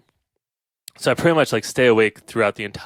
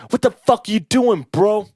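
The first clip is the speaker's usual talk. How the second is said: high, louder cop voice; mock cop; 11 semitones higher, 5 dB louder than usual. Cop confronting him at the van: higher mock challenge. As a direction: demand an answer like a startled cop.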